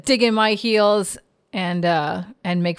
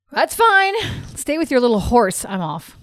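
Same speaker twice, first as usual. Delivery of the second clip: fed up. Acted. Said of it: "Tira's fed up".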